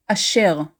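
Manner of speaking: Asher as "ah-SHER", weight on the last syllable; original Hebrew pronunciation. Shown as a demonstration. Teacher giving the name's original pronunciation, Asher as "ah-SHER". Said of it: "originally pronounced".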